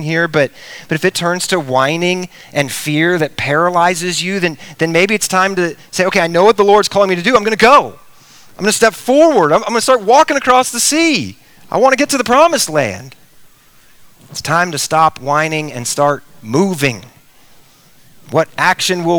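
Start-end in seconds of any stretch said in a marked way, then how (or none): 6.0-13.2 lightly acted burst of resolve; higher-pitched, eager declaration of intent; determined resolve. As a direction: voice a believer rallying to step out. Voices a believer resolving to go.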